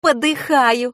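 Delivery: put-on high girlish exclamation of amusement; mild mock hilarity. A narrator's reading. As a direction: voice a child lightly in fits. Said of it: "расхохоталась Катя".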